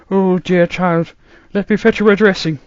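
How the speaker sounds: put-on musing old man, baffled; puzzled grandfather voice; old doctor voice. A narrator's reading. Doctor comforts.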